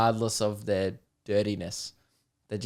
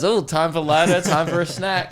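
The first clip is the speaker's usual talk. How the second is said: slightly raised, playful dog voice; a hint of an eager helper dog; lightly voiced dog; 5 semitones higher, 4 dB louder than usual. Host voices a service dog smelling weed, lightly voiced dog. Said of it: "The dog smells weed and then goes".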